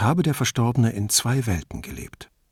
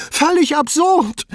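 very high, loud, hysterical cry; voice cracking over; 5 dB louder than usual. A narrator's reading. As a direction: draw it out slowly as the voice tips over. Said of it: "Rudis Stimme überschlug sich". (mit sich überschlagender Stimme)

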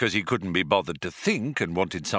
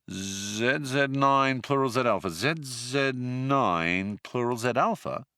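puzzled repeat; slower than usual. Acted. Zaphod slowly repeating puzzled.

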